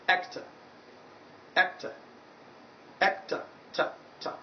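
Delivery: "Actor" ending in a weak "tuh", no r; final schwa demonstrated. Shown as a demonstration. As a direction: isolate the light "Ta" after "Actor". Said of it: "That is where you find the sound".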